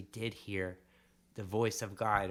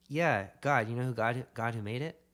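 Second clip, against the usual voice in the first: a lightly voiced, keen barber asking; eager barber question; 2 semitones higher, 5 dB louder than usual. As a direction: voice the barber leaning in with enthusiasm. Barber voiced asking about God.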